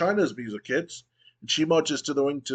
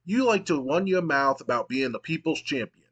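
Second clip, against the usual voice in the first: higher, pushy mock trash talk; lightly voiced tough brawler; Stone Cold promo; 3 semitones higher than usual. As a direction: taunt your rival on the mic, hammed-up. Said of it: "And Stone Cold goes".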